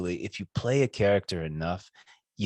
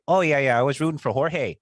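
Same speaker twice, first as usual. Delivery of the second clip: Canadian impression; 3 semitones higher, 4 dB louder than usual. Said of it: "Does he really talks like this".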